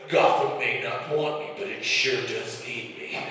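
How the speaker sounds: slow, gruff superhero impression; hammed-up masked-vigilante voice, drawn out at the end; Batman. Husband talks dirty to wife, mock superhero voice. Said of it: "was Batman".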